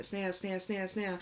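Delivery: name repeated without a break; urgent repeated calling. Retold or imitated. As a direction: re-enact trying to shake someone awake. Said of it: "and I'm, like, shaking".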